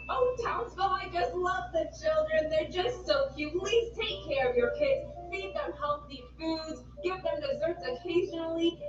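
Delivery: high, pompous little mayor speech; Mayor of Townsville voice. Acted. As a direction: address the citizens as a silly mayor.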